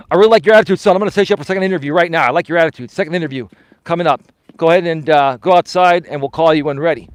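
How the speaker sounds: loud, brisk drill sergeant tone; cocky military voice. Retold or imitated. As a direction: boom it out like an army recruiter. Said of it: "cocky, arrogant military voice".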